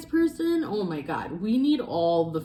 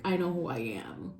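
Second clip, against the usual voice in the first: breathy whisper of quiet certainty; whispered conviction; 2 semitones lower, 6 dB quieter than usual. Retold or imitated. Reader to her listener, whispering a quiet vow of self-knowledge. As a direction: whisper it to yourself, sure and steady. Inner conviction, quoted to oneself.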